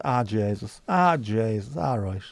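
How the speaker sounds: drawn-out Irish exclamations; Irish accent. Acted. Streamer showing another verbal habit, Irish accent. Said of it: "Same as".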